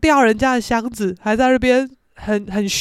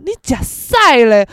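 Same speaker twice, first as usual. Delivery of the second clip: lightly voiced street-tough girl, loud and drawn out; a hint of delinquent swagger; tough gangster girl; 7 dB louder, slower than usual. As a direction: throw out a slow mock threat. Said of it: "我就是八加九小太妹".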